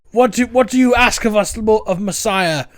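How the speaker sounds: beg, then wave them off, hammed up; exasperated Brian. Brian shooing his followers, in a high exasperated voice.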